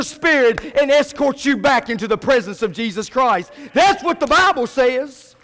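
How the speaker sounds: insistent pulpit delivery, voice lifted; emphatic sermon build; fired-up preaching. Real, not acted. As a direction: drive it home to the congregation. Preaches at full force.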